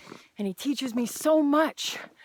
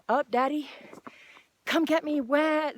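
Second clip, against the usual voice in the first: mock whiny child; 5 semitones higher than usual. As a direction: whine like a toddler wanting to be carried. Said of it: "stand still and say".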